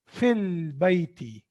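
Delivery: "Fil bayti" slowly, with a long clear L in "Fil"; lam pronounced. Shown as a demonstration. Teacher showing that lam is pronounced here, slow clear L in "Fil bayti". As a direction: draw out the L of "Fil" before "bayti". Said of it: "So lam is pronounced here".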